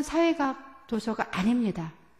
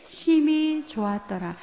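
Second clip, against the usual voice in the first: 심히 drawn out, higher, slow; stress on 심히; 4 semitones higher, 3 dB louder, slower than usual. Shown as a demonstration. Preacher shows the congregation God's delight, 심히 stressed. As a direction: lean slowly on 심히.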